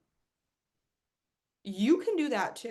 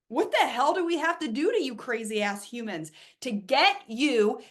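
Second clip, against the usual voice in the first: louder, exasperated demand; loud rant; 4 semitones higher, 5 dB louder than usual. Pretend. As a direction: push it out like a frustrated plea. Ranting universe demands humans open up.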